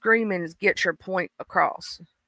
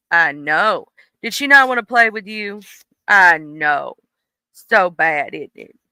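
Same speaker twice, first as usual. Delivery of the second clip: cooing sympathy to her dog; soothing pet talk; 3 semitones lower than usual. Real, not acted. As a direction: comfort the puppy gently.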